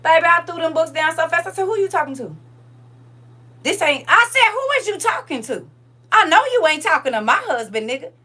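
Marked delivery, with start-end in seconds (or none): 1.7-2.3 retold confrontation. Woman retelling confronting a man about her husband, high indignant challenge. 4.5-8.1 high, loud indignant challenge; retold confrontation. Woman retelling defending her ex-husband, loud high confrontation.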